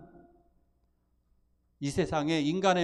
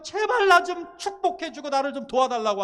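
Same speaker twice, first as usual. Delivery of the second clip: clinging plea; 8 semitones higher, 4 dB louder than usual. Retold or imitated. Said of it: "정말 그 사람을 부여잡고".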